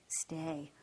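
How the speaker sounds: whispered stay to the dog; whispered cue. Real, not acted. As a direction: barely breathe the cue.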